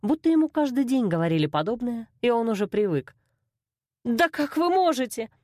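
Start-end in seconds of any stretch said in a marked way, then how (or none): 4.0-5.3 higher, indignant outcry; outraged cry. A narrator's reading. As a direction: cry out in disbelief. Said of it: "вскрикнула я".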